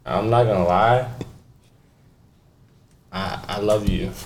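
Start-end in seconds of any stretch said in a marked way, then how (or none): 3.1-4.1 pretend love confession. Prank love confession on phone.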